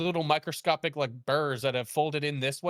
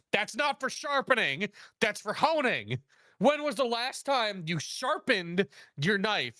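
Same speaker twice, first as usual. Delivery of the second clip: high-pitched, exasperated scolding; exasperated correction; 6 semitones higher than usual. Retold or imitated. Chef scolding stepdad about his knife, high and exasperated. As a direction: correct them in disbelief, pitch jumping up.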